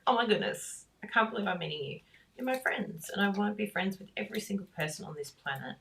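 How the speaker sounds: excited greeting. Acted. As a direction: gush as if meeting a new friend. Acting out excited meeting with viewer.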